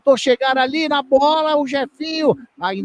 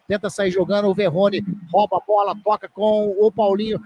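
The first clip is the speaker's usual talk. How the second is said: ordinary talk, nothing marked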